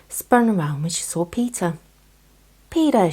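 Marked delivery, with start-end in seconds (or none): 2.7-3.1 bright high chirp of a name. A narrator's reading. Squirrel calling her friend, high chirp. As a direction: call his name, high and bouncy. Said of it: "she chirped".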